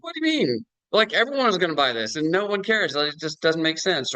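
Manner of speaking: incredulous disbelief. Retold or imitated. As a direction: play the stunned founder who can't believe it. Founder baffled nobody cares.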